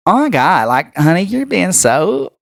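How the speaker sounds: lightly voiced sorority girl, drawing out the end; a hint of drawling sorority sister. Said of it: "my complete sorority voice and be like".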